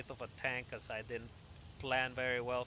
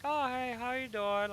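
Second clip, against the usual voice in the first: cheery visitors; 12 semitones higher, 4 dB louder than usual. Retold or imitated. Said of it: "they're like".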